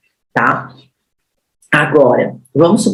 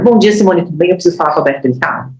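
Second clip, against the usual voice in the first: upbeat greeting, firm ask; confident professional call; faster than usual. Shown as a demonstration. Trainer demos calling the receptionist as a professional. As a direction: sound like a pro on the phone. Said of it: "posicione-se como um profissional".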